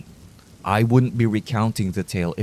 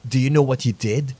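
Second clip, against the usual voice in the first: shouting; 3 semitones higher than usual. Acted. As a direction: shout it at the room. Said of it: "the long-haired man shouted".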